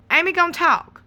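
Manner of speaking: a pointed repeat. Acted. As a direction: push "gonna", pitch up. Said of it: "repeated for emphasis".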